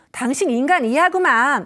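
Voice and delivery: loud contemptuous sneer; insulting jab. Retold or imitated. Debate opponent insulting you right away, loud and scornful. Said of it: "이렇게 얘기를 한다".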